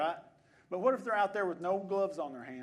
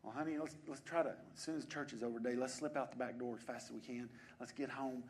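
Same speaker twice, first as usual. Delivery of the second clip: weary churchgoer; 4 semitones lower than usual. Acted. Churchgoer to spouse about slipping home for a nap, mock weary.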